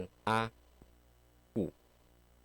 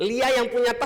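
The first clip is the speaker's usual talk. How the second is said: laughing; 13 semitones higher, 5 dB louder than usual. Real, not acted. Joking about Lia's pricey bag.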